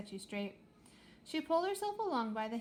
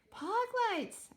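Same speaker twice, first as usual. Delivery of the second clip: high, loud call across the speaker; shouting; 12 semitones higher, 4 dB louder than usual. Acted. Astra warning the crew over the speaker, loud high shout. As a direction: call out to get their attention. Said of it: "Astra shouted".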